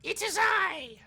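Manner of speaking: sudden high booming cry from the dark; booming guardian voice. Acted. Temple guardian booms at the intruding bunny. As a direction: boom it out like an unseen guardian. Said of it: "you hear a voice go".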